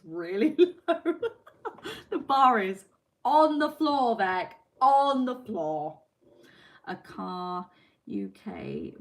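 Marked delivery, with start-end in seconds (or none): 0.0-6.0 louder, higher, laughing protest; indignant and amused at once; laughing mock outrage. Real, not acted. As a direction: tease the viewer Beck loudly. Mock outrage at backhanded compliment.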